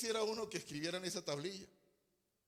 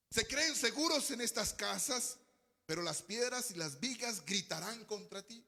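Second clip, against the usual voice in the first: scripture reading; 2 semitones higher than usual. Real, not acted. Preacher reads a warning to the church, emphatic reading. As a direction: proclaim it, settling toward the end.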